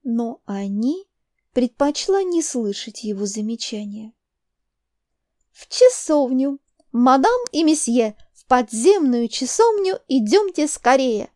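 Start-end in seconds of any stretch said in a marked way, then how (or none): 5.5-11.3 loud brisk command. Acted. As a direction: call them along briskly. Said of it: "командовала она".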